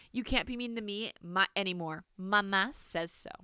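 smug. Acted. Girl gloats to grandmother.

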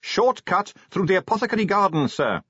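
high shouted reply; calling back. A narrator's reading. Shouted reply on speeding coach.

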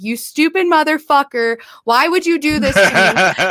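mock yelling. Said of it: "starts yelling at his penis".

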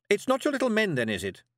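high start, falling into doubt; doubtful. A narrator's reading. Miss Tick questions the girl about little men, doubtful. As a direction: ask it doubtfully, dropping on the tag. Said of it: "said Miss Tick doubtfully".

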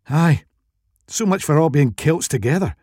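high-pitched, frustrated Scottish voice; exasperated Scottish woman. A narrator's reading. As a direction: explain in fed-up, thick Scottish accent.

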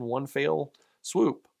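fell said like fail in a Southern drawl; Southern accent slip. Real, not acted. Preacher slipping into her Southern accent on fell. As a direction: let Southern vowels slip into fell, fell as fayl. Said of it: "That was my Southern accent coming out".

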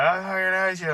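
high, loud mock yell of a kid; retold scream. Angry young man screaming at his carer, loud mock yell. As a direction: shout it like a furious teenager. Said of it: "he's screaming".

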